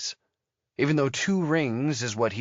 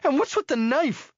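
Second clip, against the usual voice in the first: high, loud snarl of a startled woman; 4 dB louder than usual. A narrator's reading. Woman caught in her room snarls at the intruder. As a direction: spit it out as a snarl.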